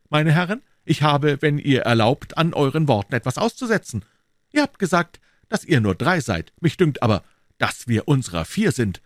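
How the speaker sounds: put-on eager young swordsman, pitched high; D'Artagnan. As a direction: speak up to the gentlemen in a high, animated voice.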